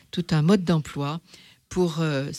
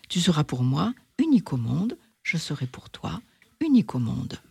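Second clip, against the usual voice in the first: lightly voiced fox. The fox questioning the little prince, lightly voiced. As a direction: play the fox sizing up the stranger.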